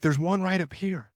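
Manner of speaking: high, eager, imitated; mock excited hunter. Buddy telling his hurt friend a buck is close, high eager.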